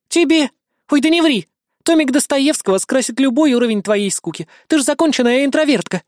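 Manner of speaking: high, lightly voiced teasing friend; teasing disbelief. Kri to Liya about boredom, mock disbelief. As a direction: tease her playfully.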